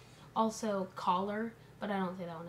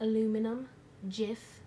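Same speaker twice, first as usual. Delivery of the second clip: put-on light British accent, word by word; a playful put-on British accent; mock British accent; 4 dB louder than usual. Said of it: "in a British accent".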